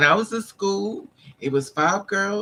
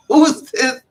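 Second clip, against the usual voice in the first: much higher, loud shocked cry; a loud, high, startled yelp; startled squeal; 9 semitones higher, 10 dB louder than usual. Retold or imitated. Reacting to a stranger crowding her, loud startled squeal.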